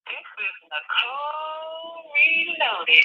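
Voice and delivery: slow, drawn-out announcer voice; booming DJ intro, stretched out; radio announcer voice. Pretend.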